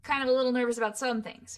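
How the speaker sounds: put-on know-it-all teen bravado, slightly nervous by the end; snarky teenager. Coach acts out teenagers for voiceover students, snarky. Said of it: "teenagers are a little bit more snarky".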